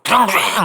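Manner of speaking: mimicked motor roar; imitated engine revving. Preacher mimics the reckless son roaring off, mock engine revving. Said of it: "막 이러고 막".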